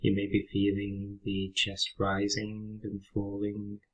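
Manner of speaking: calm, unhurried meditation guide with long pauses; guided meditation. Real, not acted. Teacher guiding listeners through a breathing exercise, calm meditation voice. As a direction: lead them gently through the breath, leaving space after each phrase.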